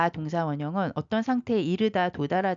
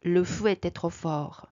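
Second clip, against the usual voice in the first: slow, careful French; slow model line; slow teaching read; much slower than usual. Shown as a demonstration. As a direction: drill it syllable by syllable. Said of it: "slow teaching read".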